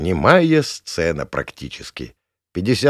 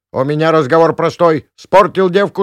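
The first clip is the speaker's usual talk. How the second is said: much higher, loud stern hag; scolding old woman; 9 semitones higher, 9 dB louder than usual. Acted. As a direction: lay down the law. Gavrilovna scolding. (сурово и громко)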